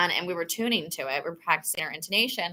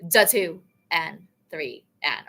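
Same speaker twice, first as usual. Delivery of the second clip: slow grace-note count; 3 semitones lower than usual. Shown as a demonstration. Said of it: "where we go".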